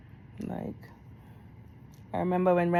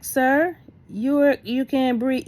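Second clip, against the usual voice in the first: high, loud, alarmed yell; yelling at husband; 7 semitones higher, 6 dB louder, slower than usual. Retold or imitated. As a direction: shout at him in disbelief. Confronting sick husband, yelling.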